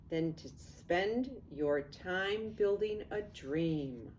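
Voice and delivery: lively storybook read-aloud; sing-song picture book narration; reading to children. A narrator's reading. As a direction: read it like bedtime rhyme to kids.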